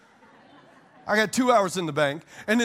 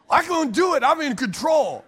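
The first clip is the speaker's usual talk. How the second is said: mock bravado; 6 semitones higher, 4 dB louder than usual. Mocking his old pride.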